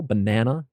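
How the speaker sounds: banana stressed on the middle syllable. Shown as a demonstration. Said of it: "emphasis usually is on the middle syllable".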